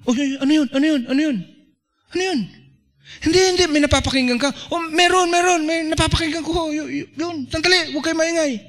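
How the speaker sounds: high, hurried excited exchange; hushing others in a quick, high voice; straining to hear. Acted. Acting out listeners straining to hear in noise, high and urgent.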